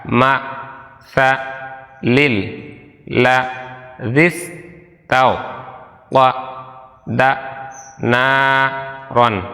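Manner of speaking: each syllable said alone with a pause after it; broken syllables. Shown as a demonstration. Teacher breaks the verse apart so students can repeat it syllable by syllable. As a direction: spell out the verse one syllable at a time. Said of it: "এভাবে আপনি ভাঙা ভাঙা শুনে".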